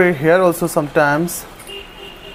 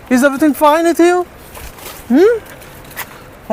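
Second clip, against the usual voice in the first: high-pitched, concerned questioning; worried cooing, pitched well up; anxious pet talk; 7 semitones higher than usual. Real, not acted. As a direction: fuss over a hurt dog. Anxiously checking on the rescued dog.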